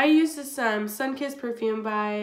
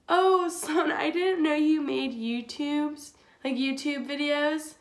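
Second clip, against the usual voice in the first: mock condescending roommate; 5 semitones higher than usual.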